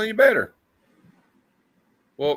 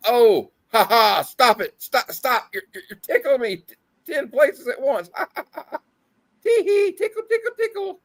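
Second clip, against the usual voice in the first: high giggly squealing; being tickled; 10 semitones higher than usual. Acted. Reading tickled hero's lines.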